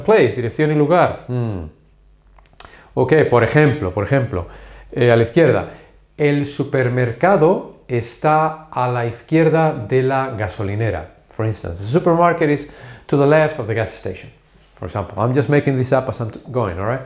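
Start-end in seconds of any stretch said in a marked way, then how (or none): 6.2-11.1 slow, deliberate phrase by phrase; slow model sentence. Shown as a demonstration. Teacher invents a direction example for students, slowly. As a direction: build the example slowly for learners.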